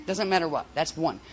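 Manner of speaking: ordinary talk, nothing marked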